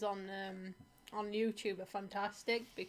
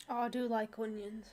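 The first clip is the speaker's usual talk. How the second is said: whisper. Pretend. Teasing echo of earlier line.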